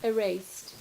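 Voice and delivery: measured poem recital with long pauses; poetry reading. Acted. Poet reading verse to an audience, measured and deliberate. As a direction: read it line by line, letting each phrase land.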